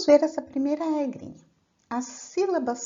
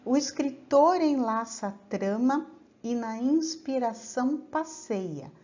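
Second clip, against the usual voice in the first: measured, unhurried verse reading; poem recitation. Acted. Teacher recites a trova to the class, measured and poetic. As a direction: declaim the trova with care.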